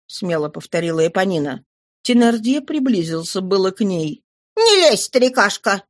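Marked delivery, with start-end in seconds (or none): 4.6-5.8 sharp rebuke. Acted. Éponine rebuffs her father with a sharp higher cry. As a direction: snap it, much higher and louder. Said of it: "осадила она его".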